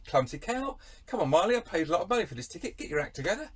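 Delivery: hurried, high-pitched grumbling at the singer; heckling concertgoer. Acted. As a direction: play an exasperated paying fan. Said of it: "You'd say".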